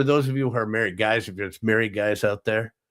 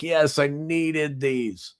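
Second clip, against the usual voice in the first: relieved delight; 5 semitones higher, much slower than usual. Retold or imitated. Relieved recipient of new underwear.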